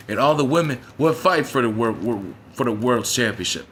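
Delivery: tripping over words in anger; stuttering. Real, not acted. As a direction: stammer while getting worked up. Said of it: "I'm stuttering here because I'm getting mad".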